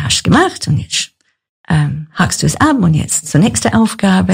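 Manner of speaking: a hint of Swabian dialect; Swabian accent. Wife quotes her practical husband, lightly Swabian. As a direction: imitate a matter-of-fact husband in light Swabian. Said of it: "Sagt er das so auf Schwäbisch?".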